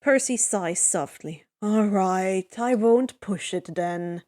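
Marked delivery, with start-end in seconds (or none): 1.6-4.2 slow, low, resigned giving in; submissive sigh. Acted. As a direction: let it go with a sigh. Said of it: "He submits with a sigh".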